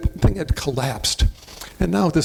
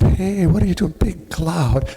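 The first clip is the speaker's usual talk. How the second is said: retold yell; 5 semitones higher than usual. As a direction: shout it up to the neighbor on his roof. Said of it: "I went out there and I yelled".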